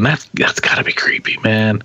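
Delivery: hushed, spooked whisper. Real, not acted. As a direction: breathe it like a ghost story. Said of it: "That's crazy".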